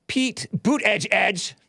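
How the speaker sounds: high, drawn-out mocking name call; jokey, unpleasant high-pitched delivery. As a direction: put on an irritating high voice, stretched slowly. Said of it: "Is that unpleasant for me to talk like that?".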